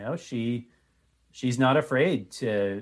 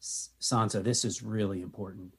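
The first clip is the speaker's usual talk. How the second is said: gentle reassuring; 5 dB quieter than usual. Pretend. Gentle adults coaxing a frightened girl.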